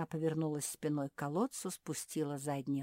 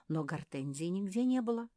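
plain reading voice

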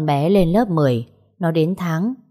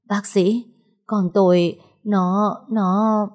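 higher, broken words through tears; crying, halting; 4 semitones higher, much slower than usual. Acted. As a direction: choke out each fragment as if sobbing. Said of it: "vừa khóc vừa hỏi". (vừa khóc vừa hỏi, giọng cao đứt quãng)

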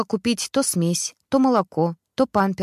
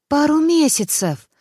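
«месяцев» thrown out higher, louder and slower, falling; surprised exclamation; 7 semitones higher, 5 dB louder than usual. A narrator's reading. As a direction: gasp out the words in disbelief. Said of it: "удивлённо воскликнул Володя". (удивлённо воскликнуть «Пару месяцев!»)

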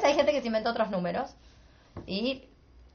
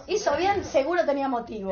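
quoting the friend higher, with a laugh creeping in; mock friend; 5 semitones higher than usual. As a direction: imitate the shameless friend, amused. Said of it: "Tengo una amiga que es peor y dijo". (imitando a la amiga en broma, más aguda)

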